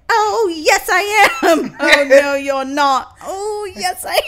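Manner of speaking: high, loud sing-song back-and-forth; imitating her bickering. Quoting the kooky woman's childish quarrel, high and loud. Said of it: "And then she's like".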